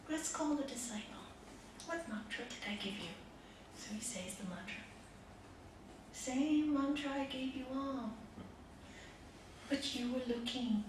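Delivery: gentle master. Retold or imitated. Master's soft answer.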